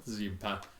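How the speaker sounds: ordinary delivery, nothing marked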